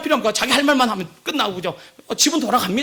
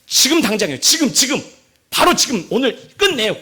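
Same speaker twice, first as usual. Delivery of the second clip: lightly voiced urgent adviser; Ahithophel; 4 dB louder than usual. Ahithophel pushing the king to attack now, urgent. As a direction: press for action, punching each word a little. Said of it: "아이도벨이 하는 얘기는요".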